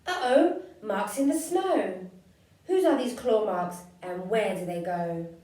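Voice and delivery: startled shout at claw marks; surprised child. Acted. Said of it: "child finds marks".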